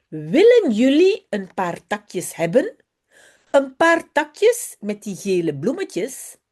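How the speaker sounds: put-on lively storybook read-aloud of a Dutch children's text. Teacher reads a Dutch story to her pupils, lively storybook voice. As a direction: bring Jip and Janneke to life for the class.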